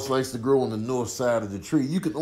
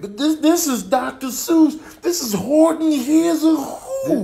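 laughing roast; 12 semitones higher, 7 dB louder than usual. Real, not acted.

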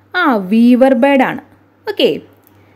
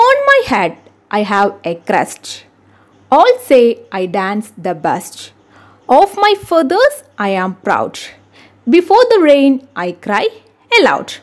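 slow, measured verse recitation; riddle reading; much slower than usual. Acted. Teacher reads a bird riddle to pupils, slow recitation. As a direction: read each line deliberately, with swinging intonation.

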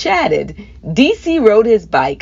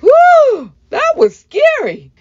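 scared relief; 5 dB louder, slower than usual. A narrator's reading. Relief after dog chase.

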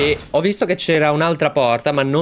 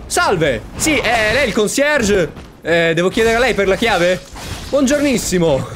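mock polite greeting; 8 semitones higher than usual. Gamer asking the monster for the key, mock polite. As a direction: play the courteous hotel guest to a monster.

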